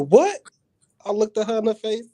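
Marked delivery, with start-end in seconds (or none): 0.1-0.4 high, loud startled yelp; startled what. Retold or imitated. Sister waking to a figure in her room, high startled cry. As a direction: jolt up in shock. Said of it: "she's like".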